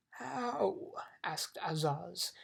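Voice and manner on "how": high, drawn-out question; demanding king. A narrator's reading. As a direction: challenge with one pointed word. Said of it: "glaring at the bug".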